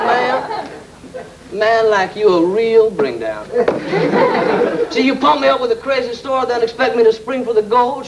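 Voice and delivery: high, fast queen. Acted. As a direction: scold him in a high voice. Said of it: "I said".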